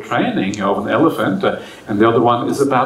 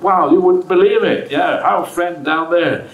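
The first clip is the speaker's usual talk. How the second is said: mock shout down; 3 semitones higher than usual. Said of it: "he shouts down to his friend".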